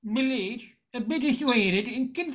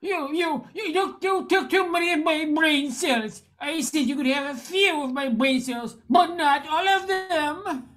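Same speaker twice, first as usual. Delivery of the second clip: panicked protest; 4 semitones higher than usual. Acted. Man realizes too many taken.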